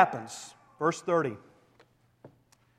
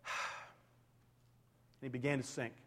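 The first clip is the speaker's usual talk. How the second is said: much softer, slow sinking line; hushed; 6 semitones lower, 16 dB quieter, much slower than usual. Acted. Preacher telling Peter's sinking, hushed and slow. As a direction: let it drop away slowly.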